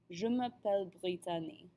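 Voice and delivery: name said with a French accent, "bree-tah-nee"; French-accented "Brittany" after smooth French. Shown as a demonstration. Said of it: "say it with a French accent".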